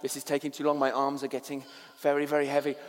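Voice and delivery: mock-weary, pressured inner moan; strained complaint.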